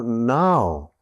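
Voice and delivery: NOW stretched out slowly; insistent NOW. Retold or imitated. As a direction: draw out NOW as an order. Boss orders call at once.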